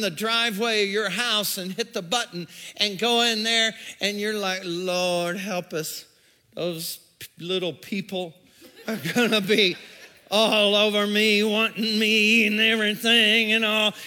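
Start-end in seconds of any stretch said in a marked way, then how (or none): 4.6-13.9 laughing plea. Retold or imitated. Parent dreads kids at home.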